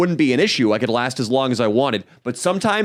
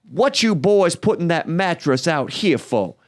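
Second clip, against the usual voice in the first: higher, slow mock neighbor lady; imitating the neighbor; 6 semitones higher than usual. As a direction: play the suspicious neighbor lady, drawn out. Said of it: "said something like this".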